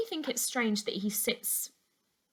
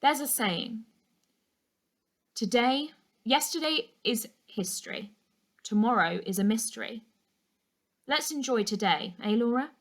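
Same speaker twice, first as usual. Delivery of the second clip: a touch of a sad smile in the voice; lightly voiced uncle, gently rueful; 3 semitones higher than usual. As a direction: uncle quotes a saying to his niece, with a mild sad smile. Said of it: "said with a sad smile".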